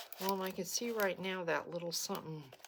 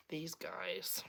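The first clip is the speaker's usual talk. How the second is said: whisper; 6 dB quieter than usual. Real, not acted. Whispering reveal of the items.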